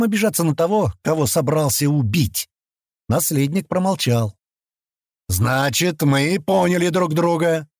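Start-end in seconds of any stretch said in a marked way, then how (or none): 5.3-7.7 relenting. Acted. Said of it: "сменил гнев на милость".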